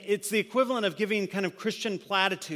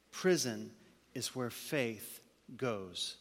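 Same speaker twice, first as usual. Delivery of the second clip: slow, fading into a whisper on "to die"; hushed whisper; 7 semitones lower, 9 dB quieter than usual. Acted. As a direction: let it sink to a breath. Sermon climax, prison image.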